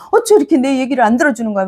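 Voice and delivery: fast, half-hearted grumble; mock angry complaint. A believer nagging God when unheard, mock-annoyed and fast. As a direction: rattle it off like a petty complaint. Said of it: "막 화를 내기도 하잖아요".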